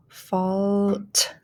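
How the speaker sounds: "fault" stretched out, final t set apart; slow blended "fault"; blending. Shown as a demonstration. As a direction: draw out "fault" and release the t late. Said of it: "start blending".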